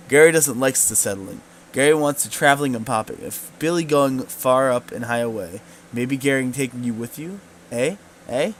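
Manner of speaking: eager goblin pleading. Acted. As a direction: coax them like a hopeful goblin.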